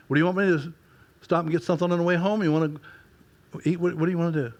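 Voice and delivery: a wife calling, light and lilting. Retold or imitated. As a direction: sing it up like his cheerful wife. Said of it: "the lilt in her voice".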